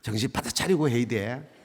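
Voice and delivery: ordinary delivery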